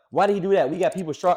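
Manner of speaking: high, loud indignant critic; loud mock outrage. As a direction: whine like an online hater. Imitating critics.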